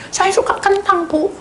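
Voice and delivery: put-on high, loud eager child; a kid chatting happily; child telling the counsellor what she likes; child's voice.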